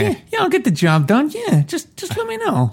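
high, squeaky weasel gangster; nervous little mob guy voice. Pretend. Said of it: "who talked like that".

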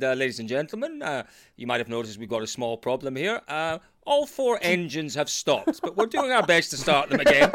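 calm captain announcing over the intercom; matter-of-fact airline captain on the PA; pilot cockpit headset. Retold or imitated. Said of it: "you should definitely do a pilot voice".

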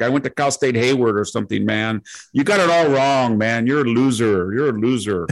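mock Valley Girl accent calling him a loser. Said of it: "this Valley Girl accent".

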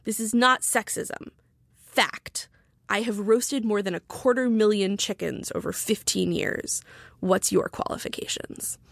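slow, deliberate tweet reading; measured, weighty retold retort; lightly voiced indignant replier. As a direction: read it out with mock gravity. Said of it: "Here's what he replied".

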